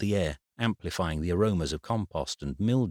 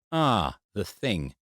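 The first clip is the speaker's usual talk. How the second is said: dawning realization; 2 semitones higher, much slower than usual. Acted. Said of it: "before Eric finally clicked".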